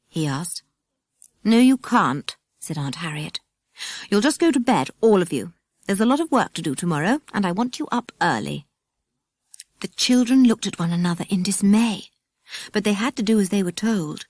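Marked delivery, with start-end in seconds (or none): 1.4-8.7 a strict aunt cutting them off; stern aunt. Acted. Aunt Harriet refuses the children sternly.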